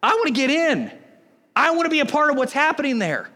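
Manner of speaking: eager outsider who wants in; eager longing. Retold or imitated. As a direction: sound like you can't wait to be part of it. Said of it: "You should be like".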